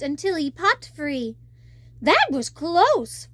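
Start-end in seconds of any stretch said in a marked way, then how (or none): 2.0-3.3 relieved sigh. Acted. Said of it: "Flounder sighed".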